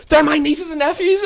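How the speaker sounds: slow, very high mock screech; mimicked woman. Woman explains whose kids they are, slow mock screech. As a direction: imitate her indignant explanation, drawn out. Acted woman's answer in quarrel.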